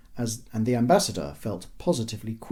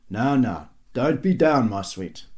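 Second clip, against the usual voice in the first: consoling husband; 4 dB louder than usual. A narrator's reading. Husband comforting his downcast wife.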